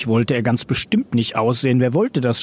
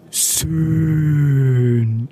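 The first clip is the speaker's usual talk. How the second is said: long drawn-out squeak on one word; squeal. A narrator's reading. Chameleon Rosso freed from the bag, long squeal. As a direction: stretch it into a creature's squeak. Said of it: "quietschte er".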